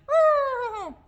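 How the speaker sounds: loud, very high whinnying whoop; zebra bray. Shown as a demonstration. Teacher leading zebra verse, loud high bray. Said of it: "hear the zebras braying".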